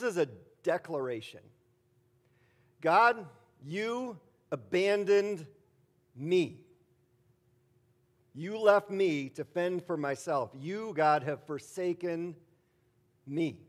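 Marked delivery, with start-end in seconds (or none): 2.8-13.6 accusing God, slow and louder; louder slow lament. Acted. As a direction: declare it to God with weight. Declaration of abandonment to God.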